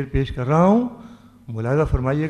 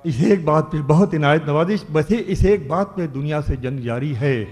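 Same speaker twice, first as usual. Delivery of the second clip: declaiming a ghazal couplet; ghazal recitation; 3 semitones lower than usual. Acted. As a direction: recite each line like poetry on stage. Poet recites verse at mushaira.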